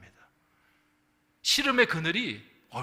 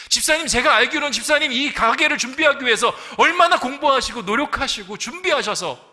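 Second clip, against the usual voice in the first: louder and higher, fervent pulpit voice; impassioned preaching; 7 semitones higher, 11 dB louder than usual. Acted. Pastor retelling his comfort to the deacon in full preaching voice.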